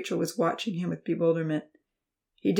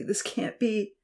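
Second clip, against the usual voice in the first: softer, stunned, pleading disbelief; anxious repeat; 3 semitones higher, 4 dB quieter, slower than usual. A narrator's reading. Uncle repeating himself over the girl, anxious. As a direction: say it again, more lost. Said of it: "Uncle Louis kept saying anxiously".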